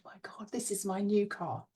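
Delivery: hushed, thrilled whisper; soft, breath-only exclamation of wonder; awed whisper. Acted. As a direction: whisper it in disbelief. Awed aside while imagining new car.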